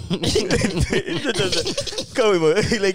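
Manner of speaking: high voice through laughter; laughing loudly while talking. Real, not acted.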